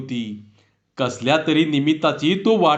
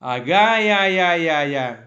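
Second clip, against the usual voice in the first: wonder, mouth agape; gaping amazement; much slower than usual. A narrator's reading. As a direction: villager marvelling at the camera, fading. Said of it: "तोंड पसरून आश्चर्याने म्हणाला".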